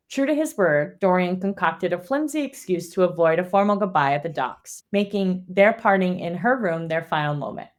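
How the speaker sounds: measured, even read-aloud delivery; story summary narration. A narrator's reading. Host recapping a fantasy chapter for listeners, measured narration.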